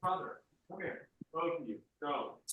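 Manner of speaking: calling out to the dogs from across the room; yelling across the room. Real, not acted. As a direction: call the dogs over from a distance.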